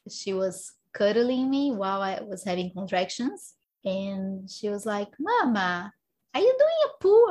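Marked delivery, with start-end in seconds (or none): 5.2-7.3 put-on high, curious child's question; little daughter. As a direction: imitate a small girl asking her mother, pitch leaping up. Voicing her small daughter.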